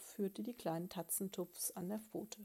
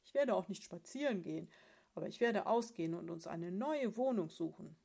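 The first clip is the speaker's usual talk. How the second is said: stubborn loud bear; 4 dB louder than usual. Acted. Bear announces move.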